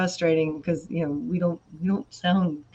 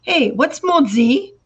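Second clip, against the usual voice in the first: higher, drawn-out mock innocent question; child asking mother; 7 semitones higher, 4 dB louder, much slower than usual. Children asking mother about French swear words, imitated innocent question. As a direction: act out a kid's slow question. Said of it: "looking at my mother going".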